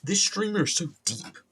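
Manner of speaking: high put-on fourteen-year-old voice; exaggerated high, gushing sarcasm; mocking teenage heckler. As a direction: heckle in a squeaky mock-teen voice. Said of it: "Heckling myself".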